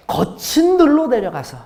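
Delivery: 거친 들로 lifted high and set apart; stress on 거친 들로. Shown as a demonstration. Pastor highlights 거친 들로 with a high, lifted voice. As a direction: lean hard on 거친 들로. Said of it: "어때요?".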